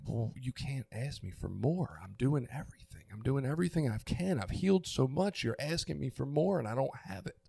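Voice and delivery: reliving a hurt, pleading protest; retold tearful anger. Father retelling his protest in therapy, tearful anger. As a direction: plead defensively, voice climbing toward the end. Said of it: "I was crying, and I was angry".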